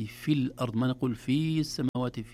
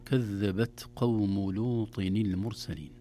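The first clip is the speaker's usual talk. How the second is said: slow, measured Quranic recitation; tajweed-style model reading; 3 semitones lower, slower than usual. Shown as a demonstration. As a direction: recite the verse slowly and carefully. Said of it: "في الآية الأولى من مائة وستين".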